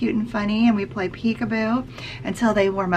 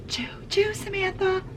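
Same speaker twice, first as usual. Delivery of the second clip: high, soft whispered choo choo; playful whisper; 8 semitones higher, 8 dB quieter than usual. Shown as a demonstration. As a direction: whisper it like a secret.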